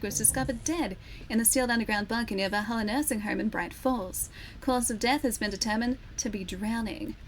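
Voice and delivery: measured news bulletin read; newsreader voice. Acted. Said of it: "I sound like a newsreader".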